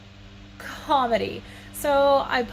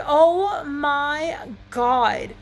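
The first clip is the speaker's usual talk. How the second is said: exasperated; much slower than usual. Retold or imitated. Retold reaction, laughing.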